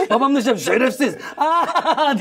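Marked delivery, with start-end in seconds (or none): 0.8-1.1 raised-pitch mock insult; retold swearing through amusement; imitated angry father. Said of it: "olmadığı kadar sinirli konuşmaya başladı". 1.4-2.2 high mock laugh; sarcastic high "ha-ha" cry; imitated laugh. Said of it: "diye gülecek adam sanki".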